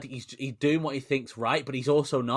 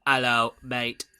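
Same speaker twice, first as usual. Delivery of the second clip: put-on West Country accent; 4 dB louder than usual. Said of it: "accent one or two".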